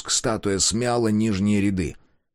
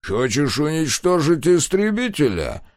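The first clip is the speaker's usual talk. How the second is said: sneering voice; 7 semitones higher than usual. A narrator's reading. Character quote.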